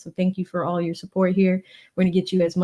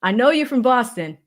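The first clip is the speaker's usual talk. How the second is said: put-on Boston accent; 2 semitones higher than usual. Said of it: "he brings out the Boston accent in me".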